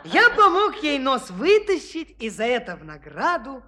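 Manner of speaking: chuckling while spinning a tall tale; laughing storyteller. Acted. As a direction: tell the lie through laughter. Espen telling tall tale laughing. (рассказ со смехом)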